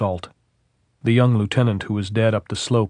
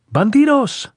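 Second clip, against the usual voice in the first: a sudden, high, loud yell; officer yelling insults uphill; sudden shout; 7 dB louder than usual. A narrator's reading. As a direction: bark it out at the enemy on the hill. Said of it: "the first officer shouted suddenly".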